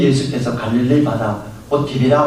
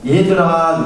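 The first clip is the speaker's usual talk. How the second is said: calling out; 4 semitones higher, 4 dB louder, slower than usual. Retold or imitated. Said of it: "이렇게 부릅니다".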